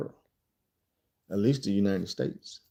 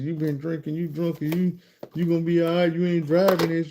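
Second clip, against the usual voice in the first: lightly voiced woman dodging the subject, higher; evasive woman; 5 semitones higher than usual. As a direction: imitate her deflecting with a higher voice. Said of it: "She avoiding the conversation".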